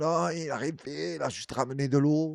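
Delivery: mock annoyed, dismissive, irritated, pitched high. Imagining an angry Christian coming across the video, mock-annoyed. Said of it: "un chrétien énervé".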